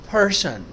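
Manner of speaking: پرسن with a puff of h after the P; aspirated P. Shown as a demonstration. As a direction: say پرسن with an airy, stressed English P. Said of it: "تھوڑا سا ایچ ہے اس میں".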